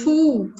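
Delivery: "Fu" with a rounded oo vowel; oo sound. Shown as a demonstration. Teacher models the double O sound for the class, rounded oo. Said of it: "vou pronunciar com som de U".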